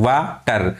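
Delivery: "वा", then "टर", each on its own; syllables said separately. Shown as a demonstration. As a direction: break water into "वा" and "टर". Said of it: "वा को अलग, टर को अलग".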